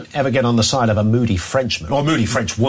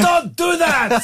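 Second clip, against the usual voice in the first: forceful shout; slower than usual. Shown as a demonstration. Host showing how French police should say it, shouting. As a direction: bellow it like you mean it. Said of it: "If they said it like that".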